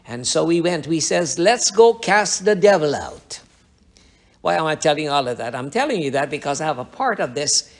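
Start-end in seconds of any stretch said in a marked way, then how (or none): 1.4-3.4 raised, higher rallying cry; spirited call to charge in. Retold or imitated. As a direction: bold battle cry, retold. Youths rallying to exorcise.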